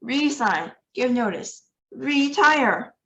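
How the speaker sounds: Grand High Witch giving orders, high and pushy; a commanding witch. A narrator's reading. Grand High Witch orders her witches, in a high witchy voice.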